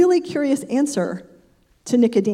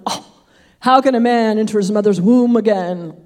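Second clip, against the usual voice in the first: a mock incredulous scoff, slightly louder; 3 dB louder than usual. Nicodemus scoffing at Jesus, mock incredulous. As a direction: lean into the disbelief, half-mocking. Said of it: "He's kind of scoffing".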